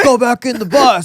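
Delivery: high-pitched imitation of an angry dad; mock yelling. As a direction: act out a father ordering kids away. Imitating father yelling at daughters.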